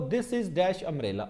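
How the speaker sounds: this is dash dog, slowed right down; slow dictation. Shown as a demonstration. Teacher reading the sentence slowly for notebooks. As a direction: spell it out for the class to copy. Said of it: "अब देखो".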